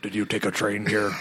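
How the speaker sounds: a hint of watered-down Irish brogue; Liam Neeson's Irish accent. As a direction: have a shaky go at an Irish villain accent. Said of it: "I can't do the fucking accent".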